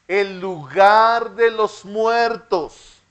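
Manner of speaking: very slow, word by word, for the class to repeat; slow dictation. Shown as a demonstration. Teacher to children before they repeat, slow and measured. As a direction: spell it out slowly so the children can follow. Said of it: "Diga conmigo".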